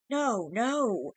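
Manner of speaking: terrified scream. Acted. Changeling refusing to reveal the mirror, a terrified scream. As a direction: shriek in refusal. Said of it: "the creature screamed".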